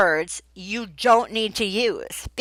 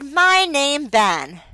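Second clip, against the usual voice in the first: put-on child's mistake; 4 semitones higher, slower than usual. Shown as a demonstration. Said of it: "Or maybe the child said".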